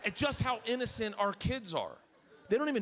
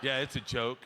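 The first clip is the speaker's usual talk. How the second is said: uneasy reassurance; 7 semitones lower than usual. Retold or imitated. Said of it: "And I was like".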